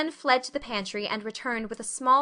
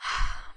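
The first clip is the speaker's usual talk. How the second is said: long breathy sigh; deep sigh. Acted. Anne sighing after the evening, deep sigh. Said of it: "she sighed deeply".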